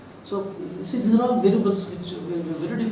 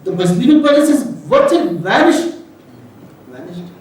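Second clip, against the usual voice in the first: emotional; 6 semitones higher, 8 dB louder than usual. Real, not acted. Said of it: "I'm sorry, I became emotional".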